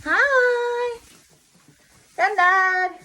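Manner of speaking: loud high call to a deaf man; shouting. Real, not acted. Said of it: "I'm gonna have to shout".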